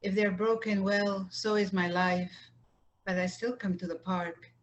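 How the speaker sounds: measured poem recitation with line-end pauses; unhurried poet's reading, pausing between phrases; poetry reading. Acted. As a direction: read it line by line, letting each phrase settle. Poet resumes reading her poems.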